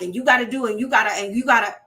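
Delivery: mild mock nagging, speeding up; nagging demands. Shown as a demonstration. Wife demanding of husband, mock nagging. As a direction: rattle off demands. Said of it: "we don't wanna be like".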